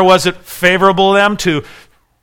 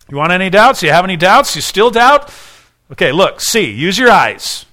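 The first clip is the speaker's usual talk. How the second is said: rising, louder challenge to doubters; challenging; 3 semitones higher, 3 dB louder than usual. Acted. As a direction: push them harder each time.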